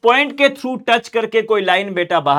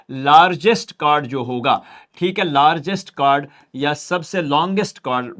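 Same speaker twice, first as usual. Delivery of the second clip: slow dictation; 3 semitones lower, much slower than usual. Shown as a demonstration. Dictating a term.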